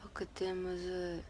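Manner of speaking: unvoiced little whisper; whispered aside. Real, not acted. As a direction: breathe it out like a secret. Murmured confession about a backflip.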